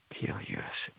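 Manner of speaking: letters whispered under the breath; whispered spelling. Real, not acted. Contestant whispering the letters to himself as he works. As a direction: spell it out in a hushed whisper to yourself.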